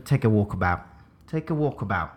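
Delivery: rough put-on Australian accent. Asked for an Australian one, attempts Australian accent. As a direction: have a go at mock Australian. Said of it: "can you do an Australian one".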